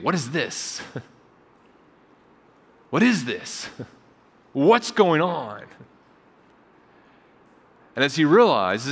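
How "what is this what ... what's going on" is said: retold dad's words with a small laugh, slowing at the end; half-laughing, can't believe the gift; laughing disbelief. A father laughing in disbelief at his daughter's gift. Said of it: "And he says it again".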